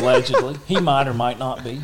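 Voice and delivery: joking aside through laughter; laughing. Real, not acted. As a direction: laugh it off, wry. Joking about deputy status.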